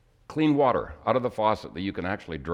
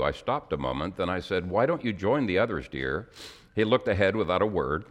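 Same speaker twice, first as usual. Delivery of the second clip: emotional. Real, not acted. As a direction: let the feeling thin the voice. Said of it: "the reason I get emotional".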